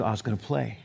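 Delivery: put-on low, soft mumbled kid's excuse; sheepish kid. Kid answering why they won't work, mock sheepish.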